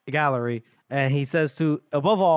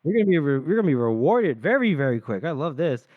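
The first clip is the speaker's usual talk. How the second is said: Ganmark/character; 2 semitones higher than usual. Retold or imitated. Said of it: "And the Ganmark's like".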